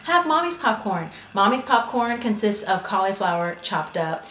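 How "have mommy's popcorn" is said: high sing-song mom voice; mom offering snack. Retold or imitated. Imitating mom offering her cauliflower snack, high and coaxing. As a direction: coax like a mother pushing cauliflower. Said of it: "and she really is like".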